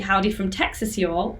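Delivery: put-on reading a Texan greeting in a plain British accent; a Brit reading "Howdy from Texas, y'all" straight. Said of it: "I said that in such a British accent".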